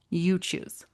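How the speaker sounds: soft unvoiced confiding whisper. Real, not acted. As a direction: let it drop to a hushed whisper. Coach's quiet aside to listeners.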